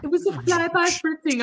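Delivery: high put-on voice for the quote; movie line voice. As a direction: play up the catchphrase. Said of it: "echoing the movie line".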